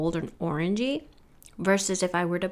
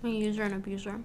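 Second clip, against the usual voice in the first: whisper; 2 semitones higher, 6 dB quieter, much faster than usual. Real, not acted. Joking about candy habit.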